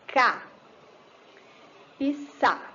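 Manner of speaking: "Cá" and "sá" as separate beats, long pause between; split into syllables. Shown as a demonstration. Teacher separating the word's little pieces, syllable by syllable. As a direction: sound out "Cá" ... "sá" piece by piece. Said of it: "separar os pedacinhos".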